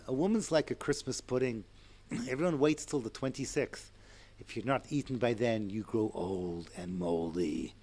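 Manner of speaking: lightly put-on Irish accent. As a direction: quote it in an Irish accent, slowing and sinking low at the end. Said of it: "I do a good, uh, Irish one".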